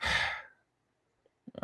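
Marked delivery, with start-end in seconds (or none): 0.0-0.1 resigned sigh. Retold or imitated. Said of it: "Blake looks at her and goes".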